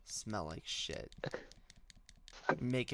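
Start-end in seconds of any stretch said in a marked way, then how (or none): 0.0-1.1 mocking. Repeats caller's words, mocking.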